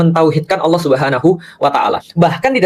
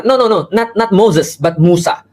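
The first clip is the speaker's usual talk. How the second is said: higher, pushy "no, no, no" correction; mock insistent correction; 5 semitones higher, slower than usual. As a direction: pretend to pedantically correct the foreigner. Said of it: "Gimana kalau kita kata".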